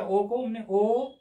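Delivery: ओ stretched slowly and evenly; slow vowel demo. Shown as a demonstration. Teacher showing the student how ओ sounds, slowly. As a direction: hold ओ out slowly to show the sound. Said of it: "औ ठीक किया कि नहीं?".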